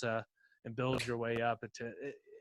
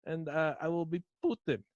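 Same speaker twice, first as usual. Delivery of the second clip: loud mock Russian cult leader; 3 semitones higher, 4 dB louder than usual. Rasputin addresses the cult.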